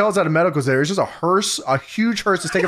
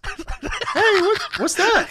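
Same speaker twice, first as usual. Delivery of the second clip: much higher, yelled confusion; Jerry Lawler voice; much slower than usual. Retold or imitated. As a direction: squeal out a baffled question. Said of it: "Jerry Lawler says".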